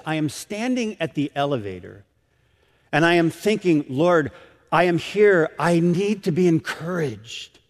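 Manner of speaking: measured, lightly imitated Romanian accent; a hint of Romanian accent, each word careful. Grandmother recalling her prayer at the elevator, light Romanian accent. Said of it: "she says in this unique accent".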